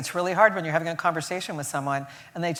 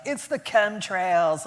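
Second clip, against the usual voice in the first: mock conspiracy drone; 4 dB quieter, much slower than usual. Quoting a conspiracy-minded acquaintance.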